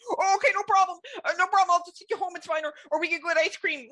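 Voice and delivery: high, bright-eyed mock boyfriend, breezy; mock easygoing boyfriend. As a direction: play the eager, harmless guy agreeing at once.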